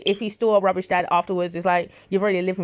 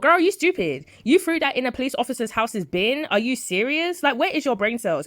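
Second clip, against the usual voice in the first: exasperated disbelief; 5 semitones higher than usual. Retold or imitated. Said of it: "But I thought".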